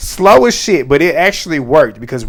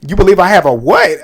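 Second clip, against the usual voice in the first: loud incredulous comeback, pitched up; sassy disbelief; 4 semitones higher, 5 dB louder than usual. Retold or imitated. Retelling Ava's comeback to Keanu, loud and sassy. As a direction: toss it back with attitude. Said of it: "I about fell out when she said".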